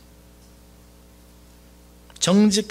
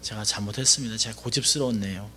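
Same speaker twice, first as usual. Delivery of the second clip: lager en zachter, een berouwvol kind; humble apology; 8 semitones lower, 4 dB quieter than usual. Retold or imitated. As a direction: say sorry meekly, head bowed. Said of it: "일반적인 사람이라면".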